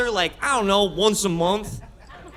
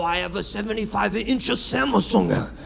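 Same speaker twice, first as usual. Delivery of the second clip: mock Korean accent. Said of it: "I'm not gonna show you".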